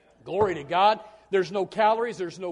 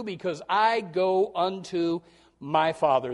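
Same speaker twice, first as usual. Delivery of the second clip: scripture reading. Acted.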